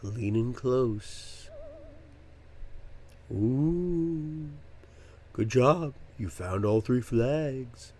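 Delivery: slow, soft whisper right in your ear; whisper into the mic. Pretend. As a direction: lean in and whisper each line. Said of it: "I'm gonna whisper into the mic again".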